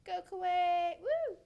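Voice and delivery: loud, high proud cheer; root for your home team out loud. Real, not acted. Cheering for a regional designer.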